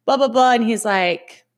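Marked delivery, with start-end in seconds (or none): 0.0-0.5 slightly higher, running-on complaint; imitating your own embarrassed excuses; retold self-pitying protest. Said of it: "I go".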